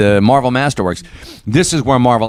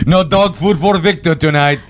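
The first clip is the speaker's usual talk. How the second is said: higher-pitched cartoon character voice; joking imitation of the shop owner, pitched up; Futurama character impression; 8 semitones higher than usual. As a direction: put on a high Futurama-style voice. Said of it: "Is that wha-, how he talks?".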